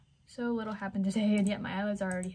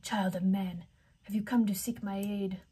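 eerie water horse. Acted. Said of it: "with a voice all the same".

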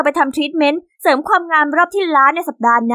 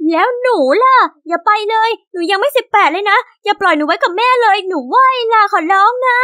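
desperate pleading; 4 semitones higher than usual. Acted. Younger sister begging her siblings not to move out, desperate pleading. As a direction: plead like a little sister about to be abandoned.

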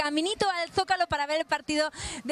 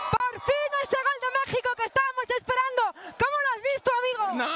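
higher, thrilled reaction to the goal; excited goal cheer; 5 semitones higher than usual. Real, not acted. Reporter celebrating the goal before asking a fan, excited. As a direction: burst out with joy at the goal.

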